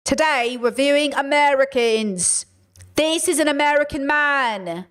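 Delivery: lightly disguised reviewer voice, slow; a hint of a put-on host voice. Shown as a demonstration. Hinting at a secret channel, in a lightly disguised voice. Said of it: "What if I disguised my voice?".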